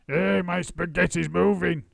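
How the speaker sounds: husband crying out at his plate; alarmed cry. A narrator's reading. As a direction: jump at the sight. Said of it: "cried Mister Twit".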